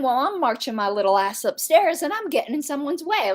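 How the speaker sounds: sarcastic. Retold or imitated. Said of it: "I just meant that sarcastically".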